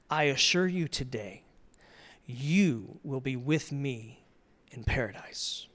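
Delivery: soft, slow and tender; tender promise. Retold or imitated. Jesus promises the criminal, soft and slow. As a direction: reassure a dying man gently.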